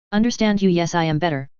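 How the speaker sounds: choppy machine-translated voice; robot voice. Acted. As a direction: speak like a clunky translator program. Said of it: "the choppy voice replied".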